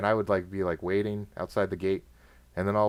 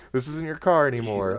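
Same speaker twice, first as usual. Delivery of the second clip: menacing guard; 6 semitones higher than usual. Pretend. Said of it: "they're like".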